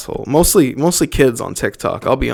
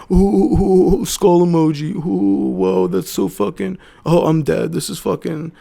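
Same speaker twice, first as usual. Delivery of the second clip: higher, hammed-up cooing of a TikTok kid; mock giddy kid; 5 semitones higher than usual. Mocking kids who post skull emojis, higher and hammed-up. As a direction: swoon over the skull emoji in a silly mock voice. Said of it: "They put that little skull emoji".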